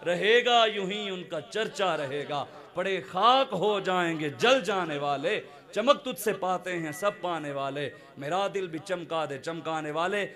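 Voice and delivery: lightly intoned couplets, slow; slow verse recital. Acted. Speaker reciting a poem at a friend's request, slow. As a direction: recite the verse with measured weight. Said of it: "یہ شعر آپ نے سنانا ہے".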